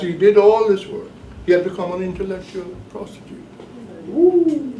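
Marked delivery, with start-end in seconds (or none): 4.1-4.7 whoop. Real, not acted. Exclaims after a harsh phrase.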